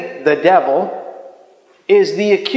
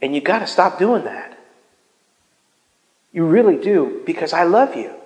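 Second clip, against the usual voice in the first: tender firm voice; 3 dB quieter than usual. Retold or imitated. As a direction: lovingly tell them to stop. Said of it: "the same voice that says".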